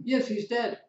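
high mock-tearful reply. Bereaved person tells the caller Mike is dead, mock tearful. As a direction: break the news in a high, put-on tearful voice. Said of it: "this tearful voice says".

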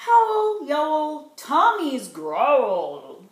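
playful howl and slow growl; hammed-up animal noises; mock growl. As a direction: ham up the hungry growl for kids. Animal noise refrain read.

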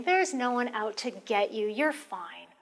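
brisk, matter-of-fact denial; dismissive correction. Shown as a demonstration. Caregiver arguing with a paranoid patient, brisk and dismissive. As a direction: brush the fear off flatly. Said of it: "as opposed to saying".

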